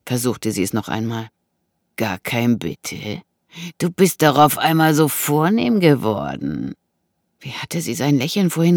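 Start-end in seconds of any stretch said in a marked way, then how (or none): 2.0-6.7 slow, mildly mocking reproach; mocking intruder. Intruder mocks her sudden refinement, taunting. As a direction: tease her for her manners.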